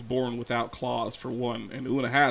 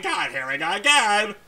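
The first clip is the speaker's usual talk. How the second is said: higher-pitched prudish complaint; mock exasperation; 8 semitones higher than usual. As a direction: whine in disbelief at the topic. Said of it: "I'm like".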